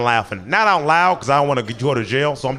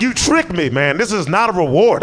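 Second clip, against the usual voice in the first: mock angry; 4 semitones higher than usual. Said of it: "I'm angry right now".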